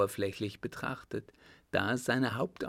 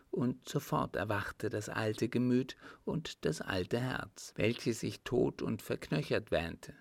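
lightly voiced countess, a touch wistful. Countess confides her old love to a young man, lightly voiced and wistful.

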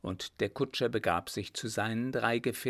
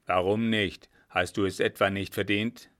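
louder, challenging comeback; gruff retort; 2 semitones lower, 5 dB louder than usual. Acted. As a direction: fire back at the coachman. Captain retorts, still gruff. (barsche Gegenfrage)

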